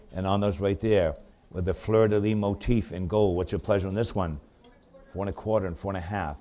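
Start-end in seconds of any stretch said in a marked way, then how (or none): 3.4-6.4 rapid rhythmic run of bid numbers; auctioneer bid calling. Acted. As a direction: keep the bids rolling like an auctioneer.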